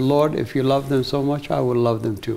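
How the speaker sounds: put-on crying, pleading tone. Retelling a past prayer, imitating own past crying. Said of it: "And I cried and I said".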